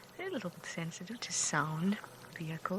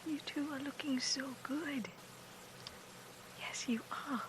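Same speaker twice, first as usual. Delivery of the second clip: higher, hushed coo; adoring half-whisper; cooing at babies; 5 semitones higher, 4 dB quieter than usual. Real, not acted. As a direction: softly fuss over tiny animals. Cooing at the cubs.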